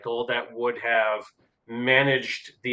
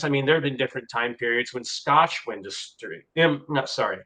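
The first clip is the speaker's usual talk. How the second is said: wearing a retainer. Real, not acted. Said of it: "I've got a retainer in".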